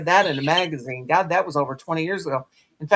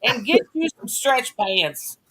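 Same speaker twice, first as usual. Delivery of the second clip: imagined scolding in a much higher, exasperated voice; mock scolding; 11 semitones higher than usual. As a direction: tell her off in a pitched-up mock scold. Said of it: "And I felt like saying".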